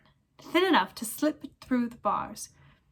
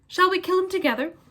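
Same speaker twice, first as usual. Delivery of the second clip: grim proposal; 9 semitones higher, 5 dB louder than usual. Acted. Sirius proposes killing Pettigrew.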